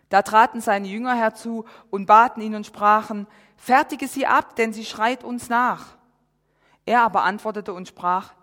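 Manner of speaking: steady, measured Bible reading; solemn Bible reading; scripture reading. Acted. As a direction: read the passage out to the congregation. Reads Matthew 15 aloud.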